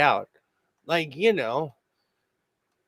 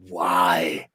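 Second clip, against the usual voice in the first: exasperated shout; 9 semitones lower than usual. Retold or imitated. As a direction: cry out at the earworm. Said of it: "you'll be like".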